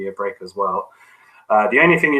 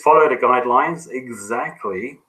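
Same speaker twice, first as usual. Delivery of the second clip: "exactly" picked out with firm emphasis; stress on exactly; 3 semitones higher than usual. Real, not acted. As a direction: lean on the word "exactly". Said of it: "I emphasize the word exactly".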